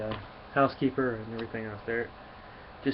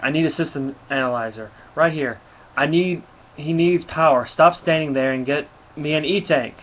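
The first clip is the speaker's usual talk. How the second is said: frantic shouting; 3 semitones higher, 6 dB louder than usual. Acted. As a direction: bark out commands in a panic. Scientists screaming to save him.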